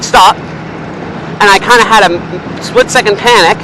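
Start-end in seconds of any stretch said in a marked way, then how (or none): 0.0-0.4 louder mock shout of stop; retold shout. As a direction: copy the instructor's sharp shout. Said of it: "So she shouted".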